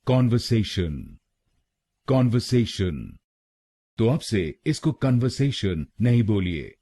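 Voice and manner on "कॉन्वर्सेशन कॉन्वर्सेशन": कॉन्वर्सेशन with the third syllable से leaned on; stress on से. Shown as a demonstration. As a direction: put the weight on से in कॉन्वर्सेशन. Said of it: "तीसरे शब्दांश पर यानी एसए पर जोर डालना है".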